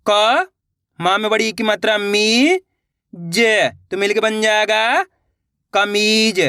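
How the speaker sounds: each syllable drawn out on a rising pitch, then the whole word; syllable drill. Shown as a demonstration. Teacher sounding out Hindi syllables for young readers, drawn out. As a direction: sound out syllables slowly for beginners. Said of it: "देखिए किस तरीके से है।".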